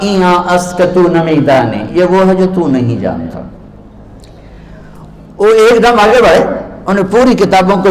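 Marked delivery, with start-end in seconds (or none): 0.0-3.5 arrogant reply. Retold or imitated. Scholar answers the rough-looking stranger with mild arrogance. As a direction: look down on the questioner, only a touch of pride. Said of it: "बड़े तकब्बुर से कहा".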